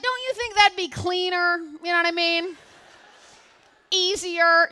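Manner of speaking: fired-up pitch. Retold or imitated. Molly pushing the manager to waive the rent, high and loud. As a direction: sell it with full energy.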